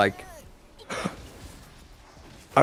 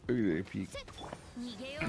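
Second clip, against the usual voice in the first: slow, much softer, drifting off; fading away; 4 semitones higher, 18 dB quieter, much slower than usual. Real, not acted. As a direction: trail off as if walking away. Repeated while walking off.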